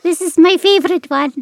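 lightly held high Scottish alpaca; a hint of the squeaky alpaca. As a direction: keep the alpaca voice, easing off. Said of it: "my alpaca Scottish character".

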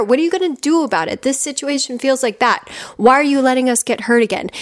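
put-on a kid scolding the grown-up; mock child complaint, not a real scream; upset inner child. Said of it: "little you just screaming at the adult you".

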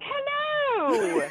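high, put-on British greeting; imitating own British-accent slip; slipped-into British accent. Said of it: "went to your accent".

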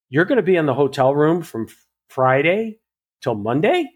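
retold disbelief, rising on each day; acted-out incredulous check, pausing before each day; incredulous questioning. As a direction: query it piece by piece in disbelief. Stylist retells disbelief at her plan.

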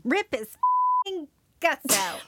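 slow, high, laughing mock-menace; demon-y threat. Cohost finishing the sentence with a demonic threat, laughing. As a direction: drag it out gleefully through a laugh. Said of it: "That's also a very demon-y thing to say".

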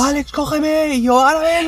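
high-pitched squeaky calling voice; sleep-talk imitation. Acted sleep-talk between siblings. (imitando a un sonámbulo con voz aguda)

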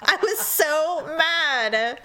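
high, very drawn-out words with laughter; laughing exasperation. Real, not acted. Admitting how mad she was, slow laughing emphasis. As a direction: stretch each phrase out, amused. Amused recounting of her anger.

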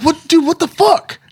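high-pitched incredulous yelp; outraged disbelief. Retold or imitated. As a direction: blurt it out in shocked disbelief. Outraged at loud roommates.

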